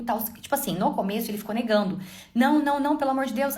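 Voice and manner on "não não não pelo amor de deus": pleading husband imitation.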